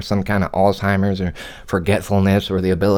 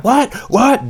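mock irritated old lady, much higher; mock old woman. Old woman interrupted at her phone game, mock high irritated what. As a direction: imitate her snapping what, pitched way up. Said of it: "And she's like".

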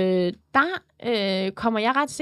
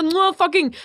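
higher mock street-tough swagger; imitated provocative boy; 5 semitones higher, slower than usual. Imitating a boy taunting a cashier, provocative. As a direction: goad like a cocky teen. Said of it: "vildt provokerende".

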